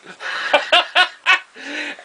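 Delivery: loud high burst of laughter; real laughter; big laugh. Real, not acted. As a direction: crack up at the punchline. Teller laughs at own punchline.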